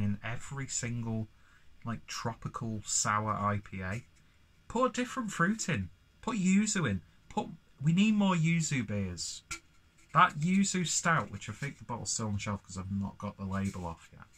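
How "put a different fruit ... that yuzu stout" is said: high, loud burst of enthusiasm; excited about yuzu. Real, not acted. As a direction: gush about the fruit you love. Ranting enthusiastically about yuzu beers.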